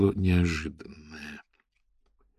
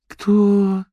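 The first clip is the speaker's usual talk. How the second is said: incredulous drawl; 14 semitones higher, 6 dB louder than usual. A narrator's reading. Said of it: "недоверчиво протянула".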